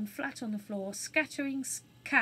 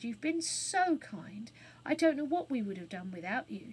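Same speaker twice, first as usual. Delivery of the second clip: grateful hush. Acted. Jane thanks burglar.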